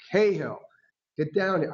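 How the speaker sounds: a mild mock yell of the name; coach yelling. Coach calling a benched kid into the game, mild mock yell. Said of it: "he'd yell out".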